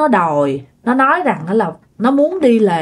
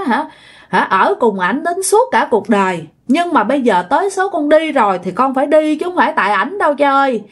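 gently insistent plea, often higher; retold pleading; 4 semitones higher than usual. Dead son speaking through sister to father, retold pleading. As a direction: implore Dad in a lightly acted voice. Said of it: "nó nói thêm rằng là".

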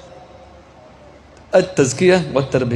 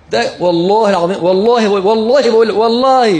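rising, louder insistent swearing; mock vendor swearing, getting louder; imitating an oath-swearing vendor; 6 semitones higher, 5 dB louder than usual. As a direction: swear over and over like a street vendor. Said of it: "بيبيع فجل وكرات".

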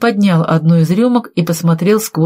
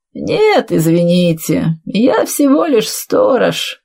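drawn-out, mock-polite character voice; watchman character; slower than usual. Figure of a watchman confesses. (голос сторожа, извиняясь нараспев)

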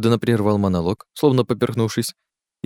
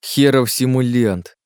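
slow, scornful insult, pitched up; disapproving hiss; 4 semitones higher, 3 dB louder, slower than usual. Acted. Jerome watches Dick's failed attempts, hissing disapproval. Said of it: "прошипел Жером с явным неодобрением".

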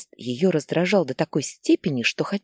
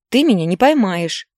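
loud, higher cry near breaking; strained shout; 4 semitones higher, 7 dB louder than usual. Acted. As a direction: shout it with all the strain left. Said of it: "крикнул с надрывом Даня". (мальчик кричит с надрывом, убегая от матери)

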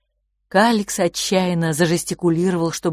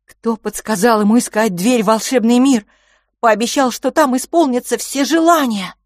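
sharp accusation; 7 semitones higher, 8 dB louder than usual. A narrator's reading. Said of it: "неожиданно резко вмешался Филипп".

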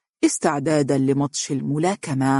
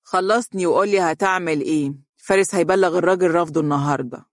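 short, fast, fed-up reply; brisk, clipped disgust; curt and disgusted; faster than usual. Acted. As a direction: cut him off with clear distaste. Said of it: "فقالت باقتضاب وهي تشعر بالتقزز منه".

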